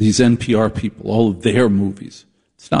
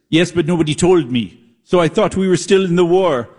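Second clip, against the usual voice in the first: serious drama survivor; 6 semitones higher than usual. Pretend. Survivor's answer in drama parody.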